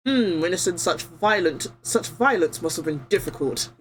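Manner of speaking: judge with a put-on British accent; lightly done British accent. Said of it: "Gives him the most British accent".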